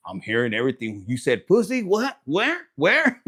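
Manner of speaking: lightly voiced dog perking up; voiced eager dog. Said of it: "His ears are like".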